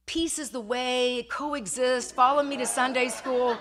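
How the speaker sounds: amused, loud, a little slow; officer reading the bumper sticker. Retold or imitated. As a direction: read the bumper out with a laugh. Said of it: "on the back it says".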